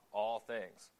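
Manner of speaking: "all" leaned on, falling; "all things" with the weight on "all"; stress on all. Shown as a demonstration. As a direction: press the word "all" to underline it. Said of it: "I want to emphasize that word all".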